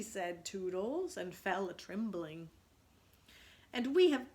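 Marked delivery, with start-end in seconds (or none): 3.7-4.3 hoarse. A narrator's reading. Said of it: "Nib said hoarsely".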